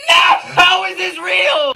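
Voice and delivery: high, slow disbelief; incredulous. Real, not acted. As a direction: stretch it out in disbelief. Incredulous outburst.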